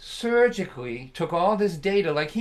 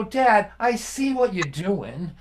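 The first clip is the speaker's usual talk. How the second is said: laughing plea; 6 semitones higher, 4 dB louder, slower than usual. Retold or imitated. Son pleading, laughing.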